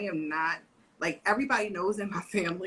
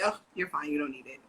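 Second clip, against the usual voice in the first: dismissive mom; 4 semitones lower than usual. Retold or imitated. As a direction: wave it away without thinking. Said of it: "I would say".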